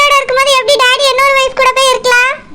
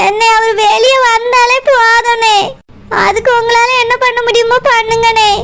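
crying. Acted. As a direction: cry out that his release is enough. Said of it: "நீ அழாத". (அழுகையுடன் மெதுவாக கெஞ்சுதல்)

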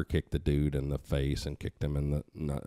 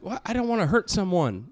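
high, meek mock voice; meek imitation; 14 semitones higher than usual. Daughter explains to her father, mock meek. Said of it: "she's like".

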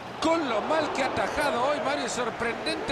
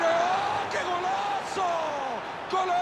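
excited goal call; 7 semitones higher than usual. Real, not acted. Second goal called.

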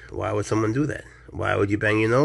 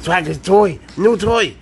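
excited pet talk; 8 semitones higher, 9 dB louder, slower than usual. Real, not acted. Owner luring the cat to a toy snake, high excited baby talk. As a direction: get the cat hyped up.

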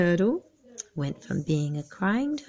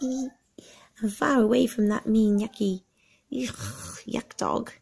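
whispered; 3 semitones higher than usual. Acted. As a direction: whisper the insult gleefully. Turtle whispers about dog.

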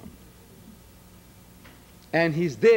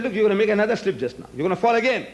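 rapid warning; 4 semitones higher, much faster than usual. Retold or imitated. Warning an opponent in debate.

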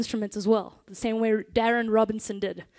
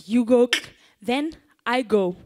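call and response; 3 dB louder than usual. Shown as a demonstration. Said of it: "so it's like".

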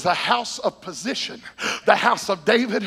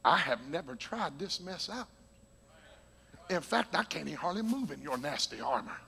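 David's reply; 4 semitones lower, 4 dB quieter than usual. Retold or imitated. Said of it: "David said".

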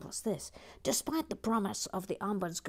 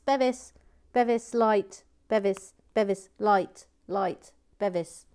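louder, eager calls of Bevis and light; excited calling out; 2 semitones higher, 8 dB louder than usual. Real, not acted. To co-host Bevis about the lights, excited calling.

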